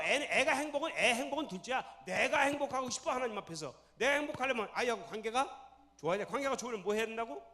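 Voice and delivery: usual speaking voice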